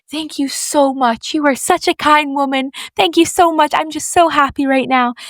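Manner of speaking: imitating a grateful, gushing stranger; happy gushing. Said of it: "she was so happy".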